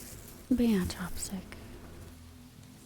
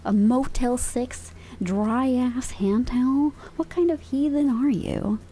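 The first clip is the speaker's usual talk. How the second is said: louder, hammed-up disgust; mock outrage; 4 dB louder than usual. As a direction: pretend to be appalled at a heathen.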